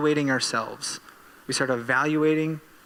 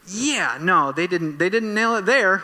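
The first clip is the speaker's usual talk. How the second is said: mock critique; 4 semitones higher, 4 dB louder than usual. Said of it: "we start going".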